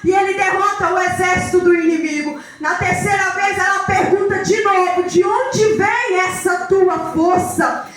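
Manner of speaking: emphatic sermon storytelling; forceful phrases, leaning hard on key words; impassioned preaching. Acted. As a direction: drive the Bible story forward with preacher's fervour.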